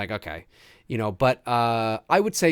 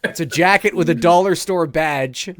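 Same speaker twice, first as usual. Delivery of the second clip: laughing; 3 semitones higher, 5 dB louder than usual. Real, not acted. Laughing at cheap cop costume.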